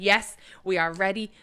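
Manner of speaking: loud, buzzing "get in, mate"; cheering for breakfast, fired up; excited cheer. Retold or imitated. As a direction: cheer it like your team scored. Excited to be woken.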